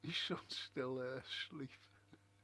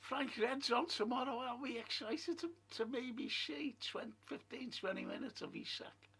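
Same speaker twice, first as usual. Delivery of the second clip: reading viewer comment; 8 semitones higher than usual. Retold or imitated. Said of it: "And, uh, Callum".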